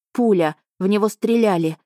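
громче, выше, в испуге; паническое восклицание. Acted. Героиня в панике зовёт на помощь. (испуганная героиня кричит королю, громко и выше)

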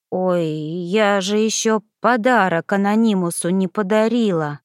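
careful, slightly slurred words; tipsy, enunciating each word with effort; trying to sound sober. Acted. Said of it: "старательно выговаривая слова заплетающимся языком".

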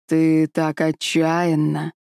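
a slow, looming dragon; dragon king voice. Acted. (медленный голос дракона)

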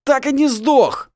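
loud slow snarl; growling. A narrator's reading. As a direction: drag out the snarl in hate. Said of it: "прорычал он".

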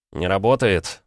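ordinary delivery, nothing marked

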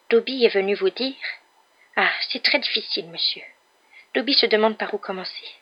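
high-voiced elf, hesitant and solemn; grave little elf. A narrator's reading. Elf unsure where to begin, grave high voice. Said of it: "répondit l'elfe avec gravité".

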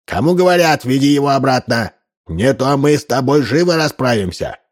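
put-on high, irate old chief; angry threat. A narrator's reading. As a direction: order him with rising indignation. Enraged chief threatens Duncan.

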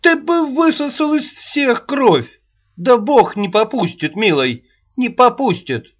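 put-on high, loud indignant old woman; shrill nagging grandma. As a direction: rail at him like an outraged old nanny. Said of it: "Вспылила Аннушка".

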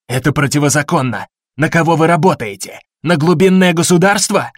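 outraged shout, rising in pitch. Acted. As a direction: yell it in panic and protest. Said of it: "выкрикнул Денвер".

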